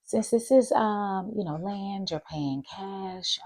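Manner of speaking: high, breezy explaining voice; lightly voiced cheerful agent; high customer-service explaining; title agent. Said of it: "she's like".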